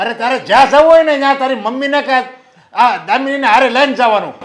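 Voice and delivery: loud, stern telling-off; scolding father. Acted. Father scolds daughter who went out alone, loud and angry. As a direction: lays down the law to his late daughter. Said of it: "એટલો ગુસ્સો શું કામ કરો છો?".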